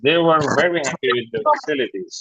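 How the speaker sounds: drawn out very slowly for repetition; slow model sentence. Shown as a demonstration. Teacher reading the sentence very slowly for the class to repeat. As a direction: read it very slowly, word by word. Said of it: "model sentence to repeat".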